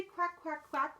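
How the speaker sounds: high, punchy quacks; happy duckling quack. Acted. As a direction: quack along for children to copy. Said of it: "When I'm feeling happy, I say".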